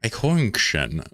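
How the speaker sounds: "Eichhornchen" said slowly, in German sounds; German word said slowly. Shown as a demonstration. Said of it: "I can't say squirrel as a German".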